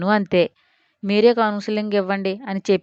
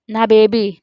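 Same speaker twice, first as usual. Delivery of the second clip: put-on a louder, falling call for her baby; delirious cry; 5 dB louder, slower than usual. Mother waking from sedation, calling for her baby, louder. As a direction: cry out for the baby half-conscious. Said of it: "కలవరిస్తూ".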